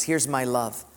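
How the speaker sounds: low, soft and tender as God speaking. Retold or imitated. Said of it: "God says".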